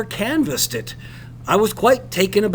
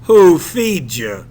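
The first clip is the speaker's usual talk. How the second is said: blunt question; 5 dB louder, slower than usual. Acted. Captain's blunt interrogation.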